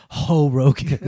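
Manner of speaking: light Spanish-accented "Ho Rogan". Shown as a demonstration. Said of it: "with a Spanish accent".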